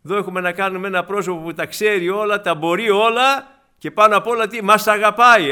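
loud, rising proclamation to the congregation; impassioned preaching. Real, not acted. Preacher telling the congregation of God's love, impassioned. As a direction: build to a forceful declaration.

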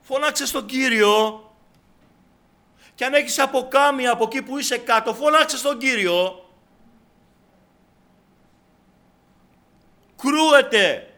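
loud, high exhortation; big ringing preacher's call. Real, not acted. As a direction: urge them to cry out, at full voice. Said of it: "Η φωνή μου γιατί είναι".

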